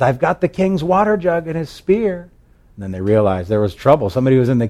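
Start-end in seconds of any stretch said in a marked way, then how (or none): 0.0-2.3 shouting from afar. Acted. David taunting the camp from afar, high distant call. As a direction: project it as if from a far hill. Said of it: "he shouts from the distance".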